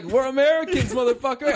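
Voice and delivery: high, loud action-hero yell; mock battle cry. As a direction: shout it like a hammed-up movie hero. Acted shout of movie hero stabbing.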